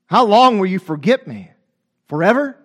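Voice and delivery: blunt question with LONG stressed; straight up. Shown as a demonstration. Preacher models David's honest prayer to God, straight up and blunt. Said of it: "just straight up with God".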